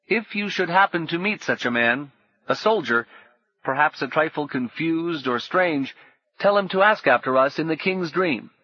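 smooth, steady, falsely calm; lightly sinister calm; calm stranger. A narrator's reading. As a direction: keep it pleasant and unhurried. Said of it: "continued calmly".

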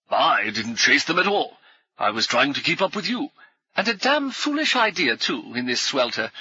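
lightly voiced, peevish scholar; mild grumble about the chase; grumbling old professor.

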